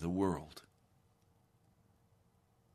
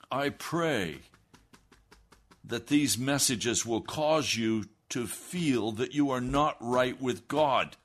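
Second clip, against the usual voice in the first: louder, slower, pressing each word home; forceful preaching; 5 semitones higher, 6 dB louder than usual. Real, not acted. Radio preacher warning Americans they are not right with God, forceful and slow. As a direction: pound the point like a pulpit preacher.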